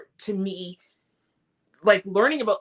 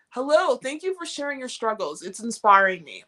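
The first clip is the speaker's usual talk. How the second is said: ordinary delivery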